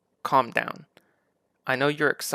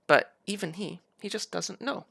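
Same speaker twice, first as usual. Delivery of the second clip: mock bafflement; 6 semitones higher than usual. Mocking Vaush's uncertainty.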